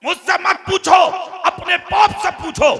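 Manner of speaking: high, forceful, declaimed reply; emphatic retold retort. Scholar answering the startled crowd, high and emphatic. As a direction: throw the retort out to the hall.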